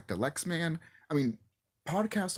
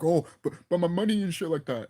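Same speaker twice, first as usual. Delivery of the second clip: higher-pitched, stammered mock excuse; mocking protest; 3 semitones higher than usual. YouTuber mimicking podcasters told to log off, mocking protest. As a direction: imitate them fretting about income. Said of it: "And they're like".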